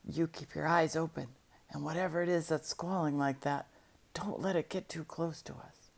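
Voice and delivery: soft, hushed warning to the dog; whispering. Acted. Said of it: "I whispered".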